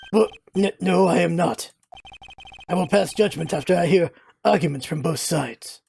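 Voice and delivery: low, formal courtroom reply; a hint of a dignified old judge; lightly voiced judge. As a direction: answer with slightly flustered authority.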